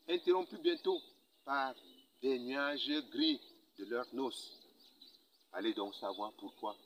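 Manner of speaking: measured poetry recital with long pauses; poem declamation. Acted. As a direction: declaim the poem, lifting key lines and letting others fall. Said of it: "le déclamant".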